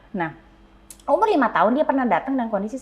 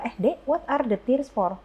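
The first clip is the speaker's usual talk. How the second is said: gentle question; slower than usual. Retold or imitated. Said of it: "Pertanyaan powerfulnya biasanya saya adalah".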